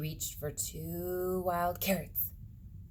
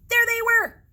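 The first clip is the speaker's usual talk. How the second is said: loud, high startled cry; sudden scare; 14 dB louder than usual. A narrator's reading. Reading a scary moment with a startled cry. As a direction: jump out at the listener.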